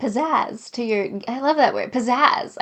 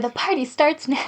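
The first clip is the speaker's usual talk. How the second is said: brighter, punchier read of the line; upbeat alternative take; 3 semitones higher than usual. Shown as a demonstration. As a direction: hit "starts" with energy.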